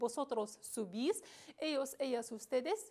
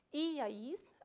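iais with the first i stressed; 2 semitones higher than usual. Shown as a demonstration. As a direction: lean on the opening i of iais.

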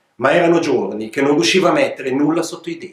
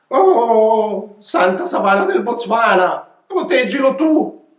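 stammering goat; 7 semitones higher, slower than usual. Acted. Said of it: "balbettò una capra".

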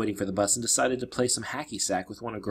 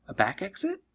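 higher, hopeful question; suggesting; 10 semitones higher than usual. Acted. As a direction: offer it quickly as an idea. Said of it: "she suggested".

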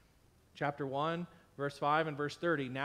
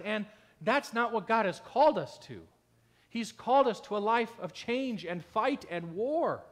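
louder, higher, driving each line home; fervent preaching; 4 semitones higher, 4 dB louder than usual. Real, not acted. Pastor rallying his congregation, loud and fervent. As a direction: preach it with rising force. Preaching rises to full force.

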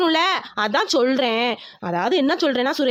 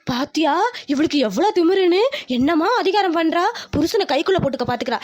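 a hint of a sour old mother-in-law muttering; scheming mother-in-law, lightly voiced; grumbling mother-in-law. Mother-in-law grumbles aside about the daughter-in-law, lightly voiced.

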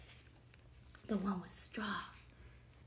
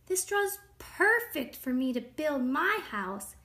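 higher, louder, eager little pig; lightly acted delight in a storybook voice; pleased discovery; 5 semitones higher, 5 dB louder than usual. A narrator's reading. Little pig finding straw for his house, eagerly pleased.

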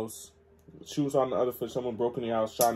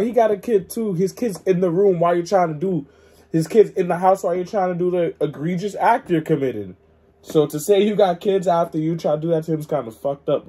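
loud, raised-pitch protest; heated objection; 6 semitones higher, 10 dB louder than usual. Real, not acted. Listener objecting to the intruder pleading about his kids, loud and heated. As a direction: argue it forcefully at high volume. Listener indignantly argues back at story.

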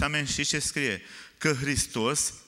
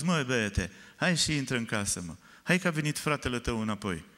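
gentle father. Acted. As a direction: call the son in kindly. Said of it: "a ieșit blând și a spus".

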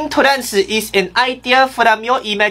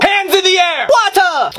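shouted command; 6 semitones higher than usual. Acted. Cop yelling at driver.

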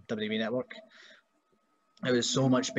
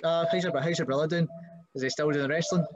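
nosy customer; 5 semitones higher than usual. Retold or imitated. Customer asking about his brother.

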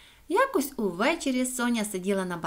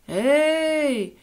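louder, higher, drawn-out reply; echo answering back; 5 semitones higher, 5 dB louder than usual. A narrator's reading. The echo responds from the darkness, calling back. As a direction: hail back from the depths. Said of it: "відгукнулася з темряви луна".

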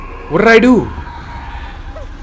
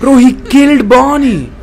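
laughing disbelief; 8 semitones higher, 3 dB louder than usual. Real, not acted. Reacting to a character's death.

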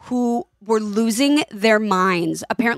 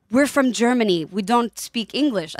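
lightly attempted, clumsy German accent; hint of a hammy German accent; terrible German accent. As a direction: imitate a German dad, badly. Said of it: "That was a terrible German accent".

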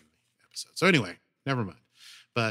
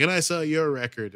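mock retort; 6 semitones higher, 7 dB louder than usual. Echoed retort, louder and higher.

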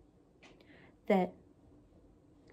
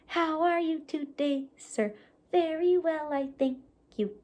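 puppet voice; 4 semitones higher than usual. Shown as a demonstration. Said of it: "they're gonna talk to each other".

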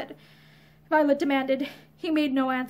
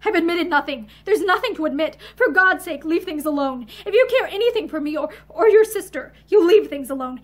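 angry. Acted. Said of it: "He broke out angrily".

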